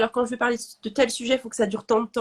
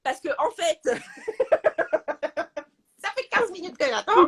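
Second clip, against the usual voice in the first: fake polite complaint; 6 semitones higher than usual. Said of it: "t'appelles pour gueuler".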